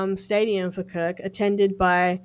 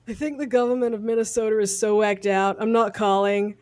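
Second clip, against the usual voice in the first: put-on American accent. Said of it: "That was just an American accent".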